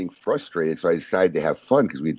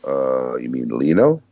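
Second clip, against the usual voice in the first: lower, puzzled clerk voice; a confused store clerk mishearing the name; lightly voiced baffled clerk; imitating the clerk; 6 semitones lower, slower than usual. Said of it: "And the guy goes".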